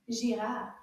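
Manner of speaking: Girafe said quickly. Shown as a demonstration. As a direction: rush through Girafe. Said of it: "Now let's say it a little bit faster".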